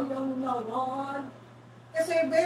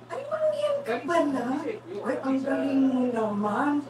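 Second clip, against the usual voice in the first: mock surprise; 4 dB louder than usual. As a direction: gush with fake surprise. Mocking surprised reaction to Mangyan.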